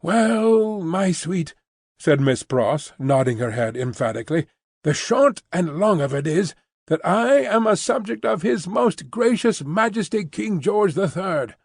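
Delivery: a touch of patriotic fervour; lightly voiced proud spinster. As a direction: announce her loyalty with pride. Miss Pross declares loyalty.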